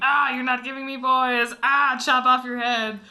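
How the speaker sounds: lightly put-on royal character voice; a hammy attempt at a complaining king; half-hearted king impression; terrible Henry the Eighth. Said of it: "That was a really terrible".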